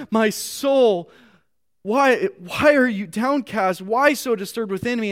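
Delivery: earnest, rising reading of a psalm; scripture reading. Acted. Pastor reads the psalm to his congregation, earnest. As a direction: read the verse as a heartfelt plea.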